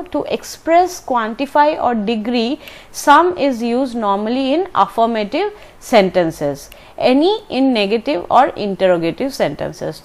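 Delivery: slow, even textbook dictation; teacher reading a grammar rule slowly. Shown as a demonstration. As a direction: read the rule out carefully for students. Reads grammar rule from book.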